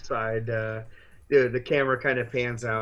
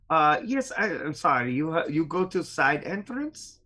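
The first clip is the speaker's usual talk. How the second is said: flustered guard; 5 semitones higher than usual. Acted. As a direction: stammer the apology in broken English. Guard apologizes in broken English.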